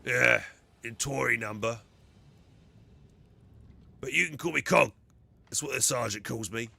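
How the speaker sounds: dim, loud brute soldier voice; lightly voiced hulking grunt; Ogryn voice. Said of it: "doing the Ogren voice".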